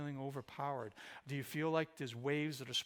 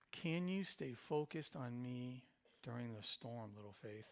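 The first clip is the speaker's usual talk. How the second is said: softer repeat; 3 semitones lower, 5 dB quieter than usual. Shown as a demonstration. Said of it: "repeats the same question".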